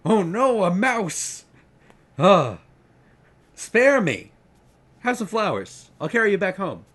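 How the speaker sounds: a huge eagle shrieking in overplayed fright at a tiny mouse; mock terror. The eagle shrieks in hammed-up terror at Dumble the mouse.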